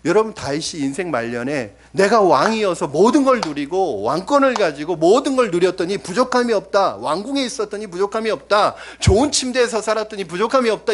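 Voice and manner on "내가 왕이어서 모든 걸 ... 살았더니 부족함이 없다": mock boast. Shown as a demonstration. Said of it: "이렇게 고백하는 게 아니라".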